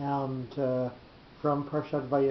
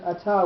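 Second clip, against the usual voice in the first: ata said a-TA, higher in pitch; stress on last syllable; 4 semitones higher, 4 dB louder than usual. Shown as a demonstration. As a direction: put the accent on the final TA of ata. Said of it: "with the accent on the last syllable".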